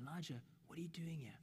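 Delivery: quick, hushed whisper; tender whisper. Acted. God calling Elijah back, in a whisper. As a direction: whisper it softly and privately. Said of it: "He whispers to him".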